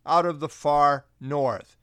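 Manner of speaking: slowed "out of the far north" leaning on "north"; stress on north. Shown as a demonstration. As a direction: lean on "far north" slowly. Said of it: "note the strong emphasis on north".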